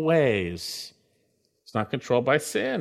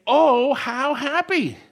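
emphatic exclamation; 9 semitones higher, 4 dB louder, slower than usual. Shown as a demonstration. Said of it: "is actually emphatic".

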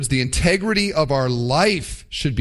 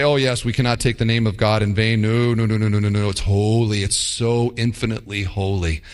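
pious mock protest; 5 semitones lower than usual. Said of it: "Christians would say".

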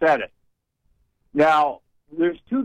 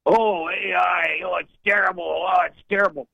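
mocking Democrats; 3 semitones higher than usual. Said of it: "the Democrats are on it like a duck on a June bug".

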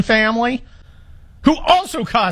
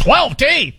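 disbelieving echo, pitched up; incredulous; 6 semitones higher than usual. Real, not acted. Host on air stunned by the dog's twelve pulled teeth, incredulous. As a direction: repeat it like you can't believe the number.

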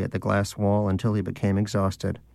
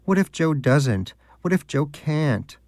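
high, slow mocking whine; a lightly mocking high doubter's voice; 5 semitones higher, slower than usual. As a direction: mimic the doubter with a sneer. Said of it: "who else could possibly come up with".

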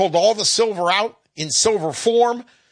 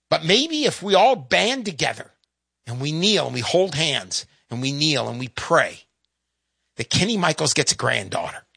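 heartfelt plea; 4 semitones lower than usual. Real, not acted. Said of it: "Sorry to get a little emotional".

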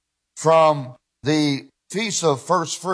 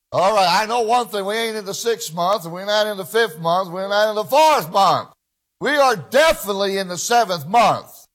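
raised-pitch, insistent sermon delivery; emphatic preaching; 4 semitones higher than usual. Real, not acted. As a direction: preach it with rising conviction. Preacher drives the point home.

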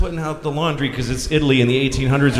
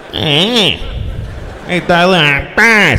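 put-on Joey's odd accent; much slower than usual. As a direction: lightly mimic a goofy guy's odd accent. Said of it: "makes noises in an accent without words".

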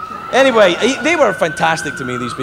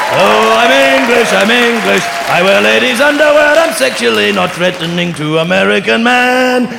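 higher, louder hammed-up English accent; bad English accent; 4 semitones higher, 4 dB louder than usual. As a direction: camp up a terrible posh English voice. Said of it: "that is the worst English accent".

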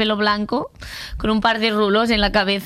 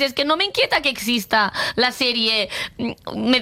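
ordinary talk, nothing marked

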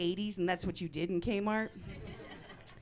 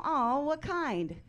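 cooing stranger; 8 semitones higher, much slower than usual. Retold or imitated. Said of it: "and they go".

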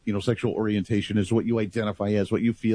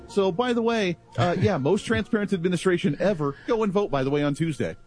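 mock announcement, pitched higher, casually offhand; lightly voiced politician dropping big news, higher pitch; imagined politician's announcement; 5 semitones higher than usual. Host imagines a pre-election reveal, mock casual announcement. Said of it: "What if he did that".

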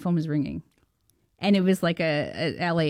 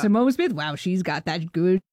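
lightly voiced enthusiastic comedian, louder; Adam Sandler; 4 dB louder than usual. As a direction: gush in a hint of his voice. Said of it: "It's the real Adam Sandler voice".

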